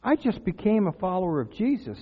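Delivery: mildly indignant retold prayer; retold complaint to God. New Christian just laid off questions God, mild reproach. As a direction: replay an aggrieved plea to God. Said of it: "somewhere along the line I said".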